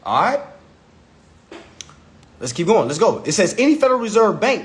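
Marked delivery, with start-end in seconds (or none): 3.6-4.6 brisk read-aloud; quicker reading. Shown as a demonstration. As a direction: read it briskly, straight through. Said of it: "let me read that a little slower".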